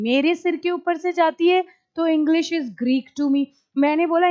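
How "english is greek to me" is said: spelled out slowly for the class; slow demonstration repeat; slow repeat of the model line. Shown as a demonstration. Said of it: "आप बोलेंगे".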